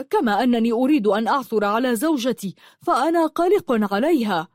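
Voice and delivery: worked-up, pressing objection; acted agitation, rising in urgency; agitated protest. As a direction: argue back heatedly, pitch climbing toward the end. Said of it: "قال بركات ثائرًا".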